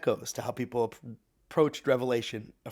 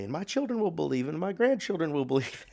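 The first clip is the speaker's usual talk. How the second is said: higher, playful revival-preacher cadence; mock Southern preacher; 6 semitones higher than usual. Teacher jokingly extending the old preacher's testimony, emphatic preacher voice. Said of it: "went on to say".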